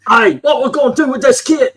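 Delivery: mock Canadian voice with a high lift; goofy Canadian accent. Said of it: "is that a Canadian accent?".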